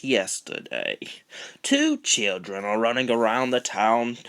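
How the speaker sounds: news reporter. Acted.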